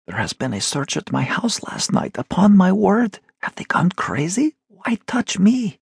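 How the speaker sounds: agitated merchant. Acted. Avdeyev protests in story.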